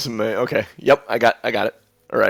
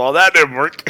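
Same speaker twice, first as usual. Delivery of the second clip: talking through laughter, higher and louder; 5 semitones higher, 4 dB louder than usual. Voicing a character who slid into someone and failed: laughing while speaking. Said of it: "he just starts laughing, goes".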